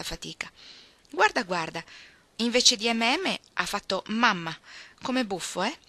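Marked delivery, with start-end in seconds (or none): 1.1-5.8 stupore giocoso, un po' più acuto; esclamazione divertita. Acted. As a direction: fai notare una cosa buffa, scandendola. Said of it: "esclamò Joe". (esclamazione stupita e divertita)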